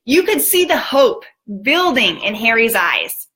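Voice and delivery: ordinary talk, nothing marked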